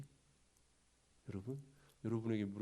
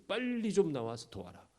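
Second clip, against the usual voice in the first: raised-pitch plea to hurry; urgent appeal; 7 semitones higher than usual. Acted. Messengers summoning the tribes for help, urgent. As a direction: call them out to help, voice lifted.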